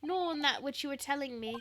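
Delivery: lightly put-on British gentleman voice; a hint of a smug, polished English detective.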